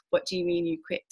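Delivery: high, disbelieving boss; incredulous boss. Retold or imitated. Boss reacting to resignation text, high and incredulous.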